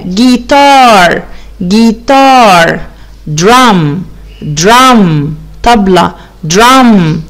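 slow repeated model words; vocabulary drill. Shown as a demonstration. Teacher drilling instrument names for pupils. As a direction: drill each word twice. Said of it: "drilling vocabulary words".

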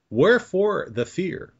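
high, slow cartoon voice; Bugs Bunny. Co-host asking the interviewee about fear, attempted Bugs Bunny voice. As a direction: stretch it out in a high cartoon impression. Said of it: "as Bugs Bunny would say".

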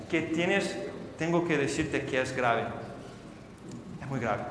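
low, hushed doctor giving bad news; quiet, solemn diagnosis; grave doctor. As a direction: drop low and soft, like a doctor with terrible news.

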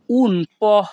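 "po" said as a short po, like Bengali প; Italian "un po", ending on a short po. Shown as a demonstration. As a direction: say "po" cleanly as po, not pio. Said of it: "এখানে পিও এর উচ্চারণ হবে প".

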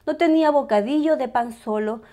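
ordinary delivery, nothing marked

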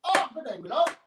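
high-pitched mock-Irish greeting; hammed-up Irish sweet talk; attempted Irish accent. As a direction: put on a lilting, amateur Irish accent. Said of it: "I'll do the Irish one".

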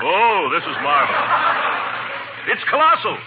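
gloating joy; gleeful. Acted. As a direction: savor the windfall. Gloating over his lucky fortune.

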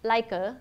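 "like a" joined as one word, "lai-ka"; linked sounds. Shown as a demonstration. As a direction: carry the k of "like" into "a". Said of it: "yếu tố nối âm".

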